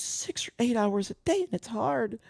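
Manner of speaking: high, whiny imitation of crying; mock crying. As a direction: mockingly whine it like a crybaby. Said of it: "literally fucking cried".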